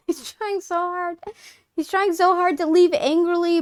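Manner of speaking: high, amused through giggles; can barely speak for laughing. Real, not acted. Laughing at character's struggle.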